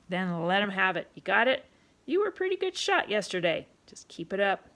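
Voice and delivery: put-on loud, bossy barkeep calling the boy in; a pushy tavern keeper ordering a kid about; rough London publican, loud and commanding; gruff pub owner. Pub owner voiced in story.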